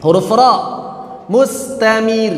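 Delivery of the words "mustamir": "mustamir" with the r rolled on; wrong reading. Shown as a demonstration. Teacher showing students the wrong "mustamir". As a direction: let the r of "mustamir" trill. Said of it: "Tidak dibaca mustamir".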